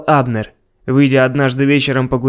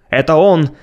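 exclaiming. Acted. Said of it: "воскликнул хор конюхов".

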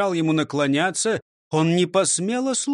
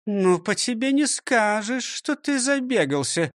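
teasing teacher stressing ты; mocking remark; 6 semitones higher than usual. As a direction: poke fun at his belly. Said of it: "заметила Фрёкинсталь". (с насмешкой)

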